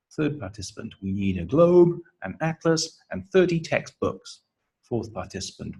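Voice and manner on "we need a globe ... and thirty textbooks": globe and atlas rise, textbooks falls; list intonation. Shown as a demonstration. Third participant in the memory game, rises then falling textbooks. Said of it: "has a rising intonation".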